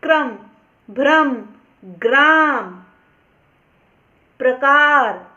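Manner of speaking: teacher models ग्राम and प्रकार with R joined after the first consonant; demonstrated R after consonant. Shown as a demonstration. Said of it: "रा होता है वो हमेशा इस व्यंजन के बाद".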